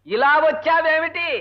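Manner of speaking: slow, drawn-out question. Acted. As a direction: stretch it out for a poor listener. Asking deaf wife who mishears. (నెమ్మదిగా సాగదీసి అడుగుతూ)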